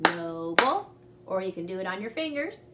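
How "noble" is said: "Noble" louder, split in two beats; syllables tapped. Shown as a demonstration. Teacher showing pupils a retry, tapping "Noble". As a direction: tap out "Noble" beat by beat. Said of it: "you can try it again".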